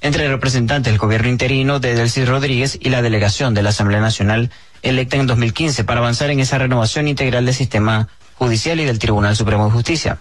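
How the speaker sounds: steady, measured news-reader delivery; even-paced bulletin reading. Acted. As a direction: read it out as a formal radio news report. Host reads the news item.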